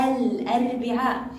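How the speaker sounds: الأربعاء with the article's L clearly sounded; audible lam. Shown as a demonstration. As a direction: say الأربعاء firmly as "al-arbi'aa". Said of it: "نسمع صوت اللام".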